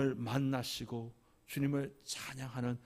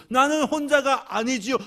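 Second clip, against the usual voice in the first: much higher and louder, crying out on 나는; tearful confession, building; 10 semitones higher, 9 dB louder than usual. Retold or imitated. Widow answering the Lord, crying it out louder. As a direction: let the feeling break out on the repeat. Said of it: "하나님 앞에 울면서 고백합니다".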